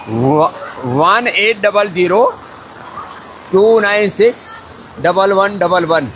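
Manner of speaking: slow, in separate groups with pauses; slow dictation. Real, not acted. Host gives viewers the helpline number, slow dictation.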